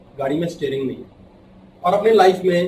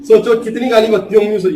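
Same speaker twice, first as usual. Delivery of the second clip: laughing; 4 semitones higher, 7 dB louder than usual. Real, not acted. Joking about Ruby ji's maid.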